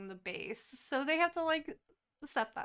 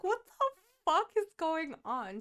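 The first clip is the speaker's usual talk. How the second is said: much higher, louder startled cry; shocked alarm; 6 semitones higher, 5 dB louder than usual. Retold or imitated. Saris alarmed as tattoos appear on her, high and shocked. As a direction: jump at the sight.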